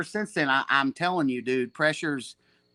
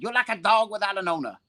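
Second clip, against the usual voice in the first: higher, blunt foreign-voiced put-down; Seneca impression; 7 semitones higher than usual. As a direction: deliver the insult flatly as a master. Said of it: "I got a good Seneca impression".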